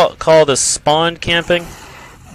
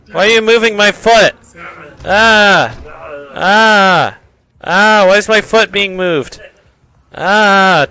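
hammed-up alarm with repeated yelps; raised, playful cries of alarm; mock panic; 4 semitones higher than usual. Alarmed at foot being moved.

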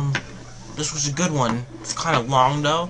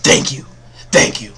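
relieved cheering; 5 dB louder than usual. Real, not acted. Grateful celebration.

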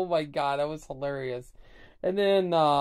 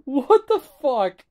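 high, loud shocked swear; jolted by a scare mid-video; startled outburst; 9 semitones higher, 8 dB louder than usual. Real, not acted. Vlogger startled by a jump scare, shocked shout. Startled while watching the show.

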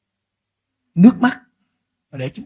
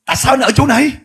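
rising higher and higher, aghast at the fire; shocked question; 8 semitones higher, 7 dB louder than usual. Retold or imitated. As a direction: ask in growing horror, voice climbing high. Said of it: "ông hỏi vậy".

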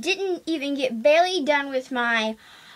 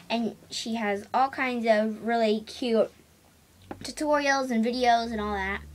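chewing gum. Real, not acted. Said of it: "I'm sorry, I'm chewing gum".

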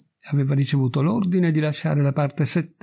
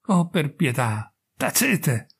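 supplica disperata; slower than usual. Acted. Donna implora il prete.

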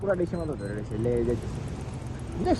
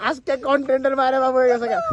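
laughing despair; 3 semitones higher than usual. Real, not acted. Vlogger laughing at the ruined night, half crying. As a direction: laugh through the words half in tears.

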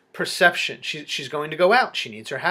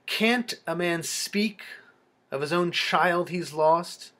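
exasperated; 2 semitones higher than usual. Acted. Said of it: "an exasperated tone".

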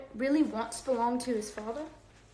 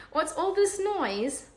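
disapproving Percy; 8 semitones higher, slower than usual. A narrator's reading.

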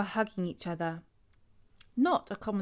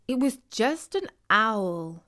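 reassuring. Acted. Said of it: "Jessica reassured her".

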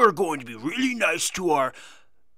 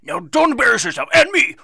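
higher, louder scolding that builds to a yell; scolding shout; 10 semitones higher, 8 dB louder than usual. Acted. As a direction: bark a warning at the girl before she goes. Scolding the young dancer.

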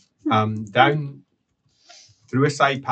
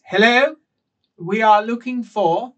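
much higher and louder hail; calling out; 9 semitones higher, 4 dB louder than usual. Acted. Magritte calling to the cultists, high and loud. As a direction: call ahead into the cavern. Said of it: "and then calls out".

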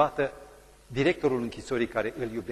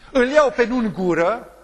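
raised, slow and emphatic; loud acted line; 8 semitones higher, 10 dB louder than usual. Preacher voicing the prisoner, loud and slow. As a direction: prisoner weighing his choice aloud.

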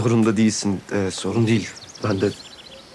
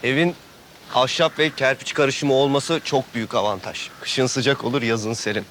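higher, keen estate-agent patter; eager sales pitch; 4 semitones higher than usual. Acted. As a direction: sell the house like a realtor. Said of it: "öyle bir anlatmaya başladın ki".

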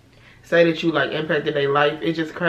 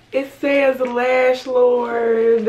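excited; 7 semitones higher, 5 dB louder, much slower than usual. Real, not acted. Reading gift in awe.

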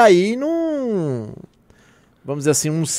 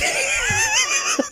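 burst of laughter; 6 dB quieter than usual. Real, not acted. Laughing fit mid-story. (gargalhada alta e aguda)

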